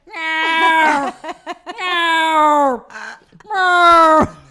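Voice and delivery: long, loud, high-pitched cat yowls; imitated distressed meowing, drawn out and shouted; panicked cat meow. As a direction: yowl like a cat trapped in a car. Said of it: "there's a cat in the car".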